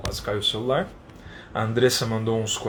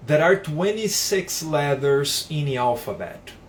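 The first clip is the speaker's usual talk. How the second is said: slow, careful example sentence for learners; teacher reading an example slowly; slow model sentence; slower than usual. Shown as a demonstration. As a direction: spell each word out slowly for the class. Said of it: "Eu vou dar um exemplo numa frase".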